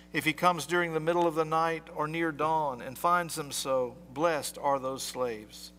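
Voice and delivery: measured formal scripture reading; gospel reading. Acted. Priest reading scripture to the congregation, formal. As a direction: read the gospel aloud to the church.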